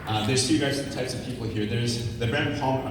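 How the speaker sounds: breathless, winded speech; out of breath. Real, not acted. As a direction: talk while catching your breath. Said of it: "I'm out of breath".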